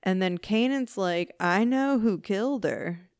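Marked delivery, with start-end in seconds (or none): 1.4-3.1 put-on Cockney accent. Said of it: "but in a Cockney accent".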